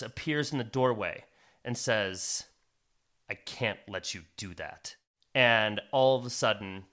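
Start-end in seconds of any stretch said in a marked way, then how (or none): 3.3-5.0 lower, softer steady voice; a hidden wizard stepping in quietly; calm stranger. Acted. Stranger appears in doorway.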